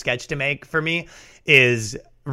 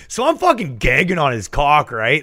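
put-on braggy frat girl. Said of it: "they don't have that accent".

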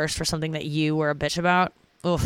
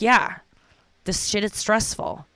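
accepting feelings; slower than usual. Shown as a demonstration. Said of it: "my therapist is teaching me".

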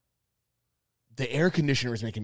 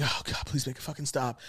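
soft, hushed begging; quietly pleading for it to end; retold scared plea; 9 dB quieter than usual. Scared stoner praying for it to end, hushed plea. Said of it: "I was scared as fuck".

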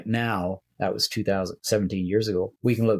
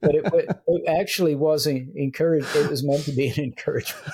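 higher-pitched talk through laughter; amused, laughing; 5 semitones higher than usual. Real, not acted. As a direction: protest lightly while laughing. Laughing together over a rueful confession.

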